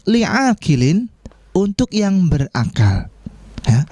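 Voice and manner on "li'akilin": slow, higher stressed new word; slow term. Shown as a demonstration. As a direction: present the Arabic term slowly. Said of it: "kata tanya yang digunakan".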